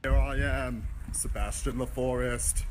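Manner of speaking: lightly voiced British nature narrator; a hint of hushed Attenborough; mock David Attenborough. Video host narrating a trek with Olivia, mock Attenborough. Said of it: "his best, David Attenborough accent".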